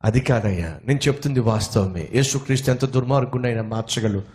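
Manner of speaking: meek preacher calmly answering an angry man; gentle reply. Acted. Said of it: "చాలా సౌమ్యంగా".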